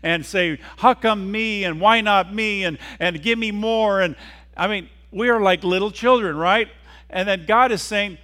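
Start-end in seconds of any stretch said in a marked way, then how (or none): 0.8-4.0 higher, louder griping; loud, raised-pitch mock whine; mock whining. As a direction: act out a childish complaint. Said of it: "We are born to whine and".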